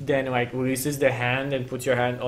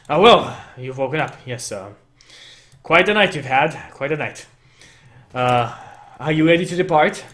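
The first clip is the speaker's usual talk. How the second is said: centaur NPC voice; 5 dB louder than usual. Acted. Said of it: "and he says".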